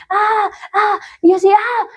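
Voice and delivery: high, drawn-out "ah" of pain; imitated pain cries. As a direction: re-enact crying out in pain. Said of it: "me comienza a doler el cuerpo".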